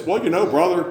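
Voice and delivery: mild mock of an evasive preacher; imitating the pastor. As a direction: stall like a preacher dodging the question. Mimics the pastor dodging.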